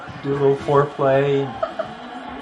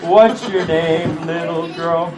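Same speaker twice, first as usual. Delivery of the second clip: low slow answers. Acted. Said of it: "I did change my voice".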